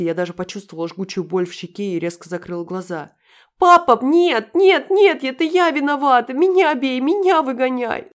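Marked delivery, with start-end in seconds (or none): 3.6-8.1 высокий громкий детский вопль; завопи как испуганный ребёнок; вопль девочки. A narrator's reading. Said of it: "завопила Даша". (вопящая в слезах девочка)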